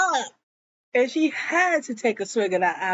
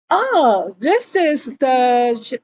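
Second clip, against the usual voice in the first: hammed-up loud church-wife accusation; mock loud accusation; 2 semitones higher, 6 dB louder, slower than usual. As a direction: call her out for everyone to hear. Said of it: "she just snuck up and went".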